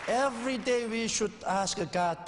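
rally the ministers with "every day". Real, not acted. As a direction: punch out "every" loud and high.

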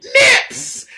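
very high squeal; squealed nips. Real, not acted. Comic reaction to the show, high squeal. Excited shout.

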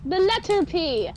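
"P" said loud and distinct; emphasis on P. Shown as a demonstration. Clarifying shipped for the others, loud stress on "P". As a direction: punch the letter in "The letter P". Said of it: "emphasis on the P".

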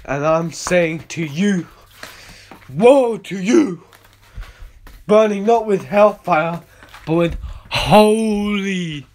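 preaching. Acted. Preaches as God's presence.

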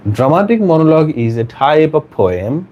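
very slow, word-by-word reading; slow dictation. Shown as a demonstration. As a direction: spell out each phrase slowly for note-takers. Dictating, asks all to write. (ধীরে ধীরে একেকটি শব্দ পড়া)

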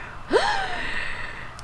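high, soft drawn-out gasp; long gasp. Pretend. Reaction in game.

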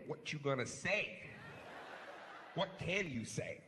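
slow, taunting challenge; daring the phone to answer, drawn out; cocky boxer taunt. Retold or imitated. Texter taunting the silent phone, cocky and slow. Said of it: "boxer mode".

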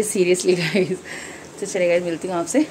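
ordinary delivery

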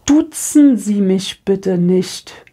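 slow, icy mock of the cold woman. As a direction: drag every word out coldly. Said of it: "ganz langsam". (sehr langsam und eisig gespielt)

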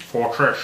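"Fortress" said as "fortrish"; Sean Connery slur. Real, not acted. Repeating the card name, "Fortress" with a Connery-like sh. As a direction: end "Fortress" on a slushy sh instead of s. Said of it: "Not Sean Connery".

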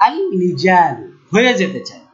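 আল লিজালু said with l in place of r; mock the error: আল লিজালু with a clear l; wrong l sound. Shown as a demonstration. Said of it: "তো এটাকে ঠেকান".

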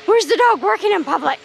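lightly mimicked demanding commenter; complaining commenter. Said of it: "I don't need to see those comments".

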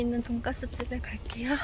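muffled behind mask; speaking with covered mouth; through a face mask. Real, not acted. Seen 2: White disposable mask covers her mouth and nose throughout speech.

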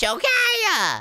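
high, drawn-out yell; exasperated shout. Pretend. Exasperated with the trolls.

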